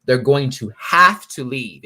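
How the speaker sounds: slow, every word weighted; firm final insistence, slow; slow emphatic repeat. Shown as a demonstration. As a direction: spell it out slowly so it lands. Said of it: "One more time".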